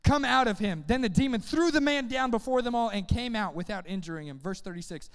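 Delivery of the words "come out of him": raised-pitch firm order; stern command. Acted. Jesus casting out a demon, stern. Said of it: "Jesus said sternly".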